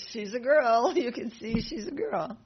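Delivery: matter-of-fact retort. Retold or imitated. Vasudeva answering Kamsa's demand, blunt loud insistence. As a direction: state the obvious right back at him.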